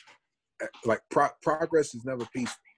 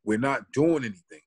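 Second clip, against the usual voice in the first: triggered protest. Retold or imitated. Retelling the moment he finally snapped at the cop, said firmly. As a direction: push back, fed up. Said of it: "something in me triggered".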